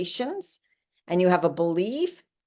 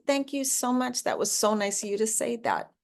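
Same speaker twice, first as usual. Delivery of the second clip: high, sweetly grateful thank-you; gracious thanks; 5 semitones higher than usual. Pretend. Acting out accepting a compliment.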